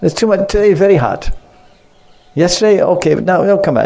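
high, plaintive parents begging; mock wailing, pitched high throughout; acted tearful pleading. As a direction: plead in a high voice for your child to return. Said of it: "Yashoda and Nanda start crying".

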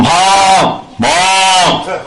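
lowing like a mother cow; a playful cow call for her calf; cow mooing. Retold or imitated. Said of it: "the mother's going".

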